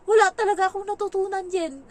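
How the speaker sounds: put-on loud high stubborn child voice; childish complaint. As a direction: insist like a stubborn kid.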